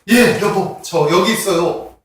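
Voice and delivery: mildly delighted wife answering up; glad wife. Acted. Wife answering her dying husband, gladly. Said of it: "너무나 반가워가지고 이렇게 얘기한".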